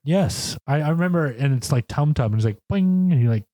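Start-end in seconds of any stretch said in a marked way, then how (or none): 2.7-3.1 high springy "boing" sound effect; imitated boing. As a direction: mimic a plucked string, high and ringing. Imitating a string being plucked.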